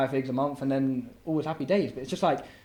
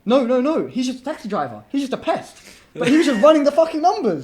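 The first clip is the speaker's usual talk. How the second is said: laughing; 11 semitones higher, 8 dB louder than usual. Real, not acted. Laughing while explaining driver.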